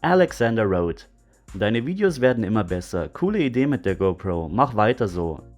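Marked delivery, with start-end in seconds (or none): 1.6-5.4 reading German in his own native voice. Real, not acted. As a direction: read it as a native German speaker with no foreign accent. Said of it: "you will hear me speaking without an accent".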